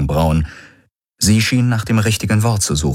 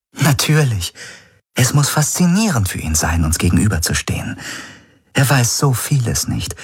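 higher-pitched sister, musing with interest; lightly raised voice, thinking aloud; a higher character voice, intrigued; lightly voiced Ylana; 4 semitones higher than usual.

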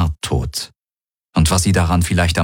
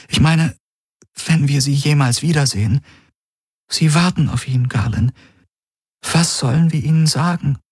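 much higher, worried woman's voice; troubled Kirai; 9 semitones higher than usual. Acted. Kirai frets to Galen about the waiting family, high and troubled. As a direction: lift the voice high, at a loss.

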